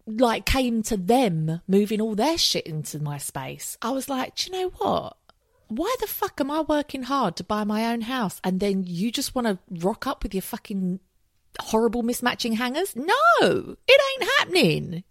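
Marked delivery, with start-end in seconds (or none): 4.4-15.0 indignant rant. Retold or imitated. Ranting at ex moving stuff in.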